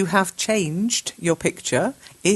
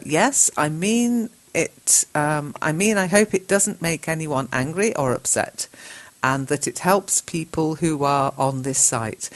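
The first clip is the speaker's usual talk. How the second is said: slow teacher reading; slow careful correction. Shown as a demonstration. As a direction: read the correction slowly.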